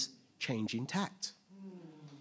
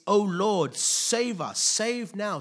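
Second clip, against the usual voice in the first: louder, higher plea to the Lord; crying out; 6 semitones higher, 6 dB louder, slower than usual. Retold or imitated. Preacher voicing the crowd's plea to be saved, crying out. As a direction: call out for rescue. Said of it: "they cried out".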